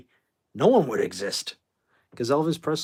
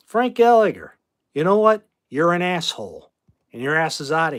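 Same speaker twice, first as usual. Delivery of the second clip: louder, higher, telling a troll off; angry callout; 3 semitones higher, 6 dB louder than usual. Real, not acted. Streamer banning a rude chatter in his chat, angry shout. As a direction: snap at the chatter before banning him.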